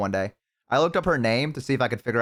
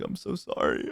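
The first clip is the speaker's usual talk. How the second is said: mock apology; 8 semitones higher, 6 dB quieter, slower than usual. Acts out apologizing to mom.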